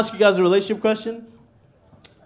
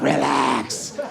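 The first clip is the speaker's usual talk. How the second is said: imitating girlfriend's command; 5 semitones lower, much slower than usual. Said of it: "looks me dead in the eyes, and she's like".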